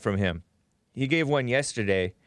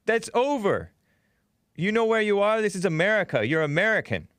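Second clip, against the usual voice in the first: mock dismissal; 6 semitones higher than usual. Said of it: "Jesse Lee Peterson is like".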